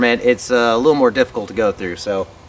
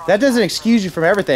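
indignant; 9 semitones higher, faster than usual. Acted. Acted argument with cop.

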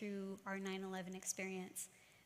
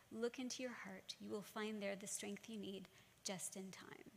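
soft, hushed fatherly comfort, partly whispered; tender reassurance; 5 dB quieter than usual. Retold or imitated. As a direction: soothe a frightened child softly. Father comforting crying daughter.

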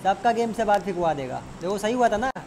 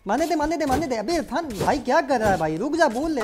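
urgent pleading; 4 semitones higher than usual. Real, not acted. Begging teammate to stop shooting.

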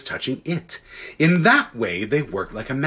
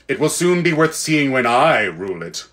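proud queen's threat. Acted. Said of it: "answered the Queen".

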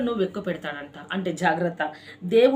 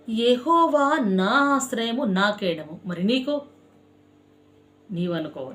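sermon. Acted. Pastor preaching to his congregation, fervent and rhythmic. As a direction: preach it with repeated cries of దేవుడే.

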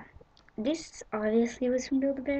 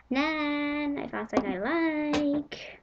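excited call; 5 semitones higher, slower than usual. Retold or imitated. Calling nan about a find.

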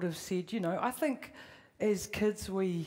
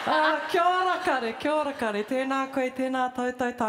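excited; 5 semitones higher, 5 dB louder than usual. Real, not acted. Loud joyful Māori greeting.

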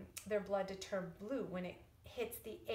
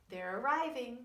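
louder storybook announcement; story refrain; 4 dB louder than usual. Acted. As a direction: call it out to the children. Refrain read to children.

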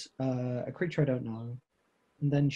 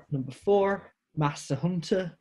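Master Hunter with flat Northern English a and u vowels; Northern accent; 4 semitones higher than usual. Real, not acted. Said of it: "Don't know why I've gone Northern".

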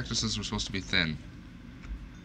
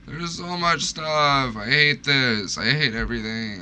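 mock despair; 4 semitones higher than usual. Real, not acted. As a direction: moan about it like it's too much. Overwhelmed by loot.

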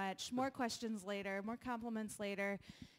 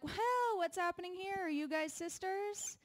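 flirting guy; 6 semitones higher than usual. Retold or imitated. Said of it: "And they're like".

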